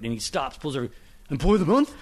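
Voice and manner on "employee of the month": high, excited retold outburst; excited fan. Fan meeting the writer of his favorite movie, excited. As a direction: gush like a thrilled fan, pitched up.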